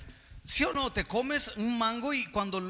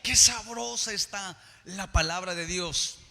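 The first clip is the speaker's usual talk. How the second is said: drawn-out, savouring exclamation; savouring wonder; 4 dB louder, slower than usual. Acted. Preacher voicing a listener delighted by God's word, savouring wonder. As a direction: relish it like delicious food. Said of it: "cuando tú escuchas la palabra dices".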